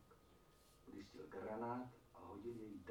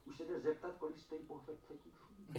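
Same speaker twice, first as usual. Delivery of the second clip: laughing boast; 7 semitones higher, 7 dB louder than usual. Acted.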